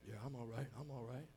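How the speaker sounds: low, soft cover-up; false front. Acted. Man putting up a false image, low and casual. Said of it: "put up that false image".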